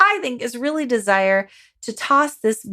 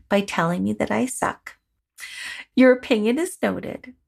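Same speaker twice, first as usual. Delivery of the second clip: confident compassion. Shown as a demonstration. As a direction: greet the inner critic kindly, then set limits. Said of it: "that's the voice tone that tends to work really well".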